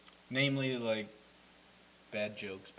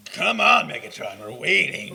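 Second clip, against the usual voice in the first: impatient call; 6 semitones higher, 13 dB louder, slower than usual. Real, not acted. Impatient fan calling out.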